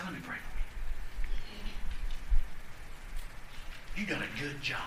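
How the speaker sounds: soft, close words of praise; gentle encouragement. Pretend. Pastor to a church member, soft and encouraging. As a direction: say it softly, eye to eye. Preacher voicing a face-to-face encouragement.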